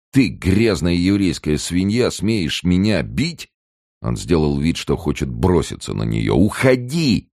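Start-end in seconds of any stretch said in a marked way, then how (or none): 0.1-3.5 higher and slow, spitting each word in fury; slow, indignant snarl of disbelief; outraged insult. Acted. Billing to Ruth after she slaps him, slow outraged. 6.4-7.3 "Уходи!" screamed much higher and louder, piercing. Acted. Ruth screams at Billing as he lunges, piercing. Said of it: "закричала она пронзительно".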